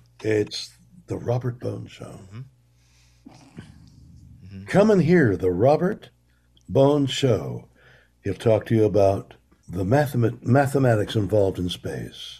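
grand, big showbiz announcer voice. Asked to do a big announcer voice, introducing the Robert Bones Show. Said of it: "Do like a big announcer voice".

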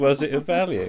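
ordinary delivery

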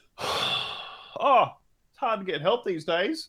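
high, soft, exasperated, fed-up sigh. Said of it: "with my hands on my hips going".

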